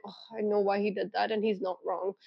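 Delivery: soft, resigned admission to yourself; quiet conceding. Retold or imitated. Mid-fight with him, quietly conceding he's right. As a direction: give in gently under your breath. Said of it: "I'll be like".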